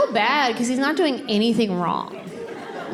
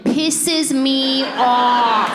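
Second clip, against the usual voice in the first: comic irritation; much slower than usual. Acted. Rant about husband spilling food.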